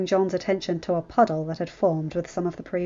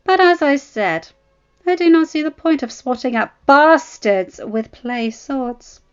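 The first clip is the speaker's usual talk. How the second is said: high, loud mocking prince voice; a haughty young prince sneering, lifted and loud; 7 semitones higher, 4 dB louder than usual. Prince taunting the bastard: loud high sneer.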